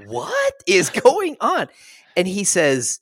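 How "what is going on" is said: slow, much higher, drawn-out disbelief; mock bewilderment. The reader reacting to the twist with slow, high disbelief. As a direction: stretch it out, baffled.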